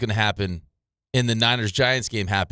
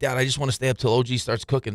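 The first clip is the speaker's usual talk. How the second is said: ordinary talk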